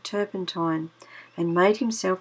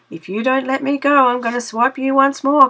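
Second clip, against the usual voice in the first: higher, louder desperate rabbit; crying out; 6 semitones higher, 5 dB louder than usual. Acted. Stuck Brer Rabbit crying out at the Tar Baby, higher and louder. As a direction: threaten while stuck. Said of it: "cries Brer Rabbit".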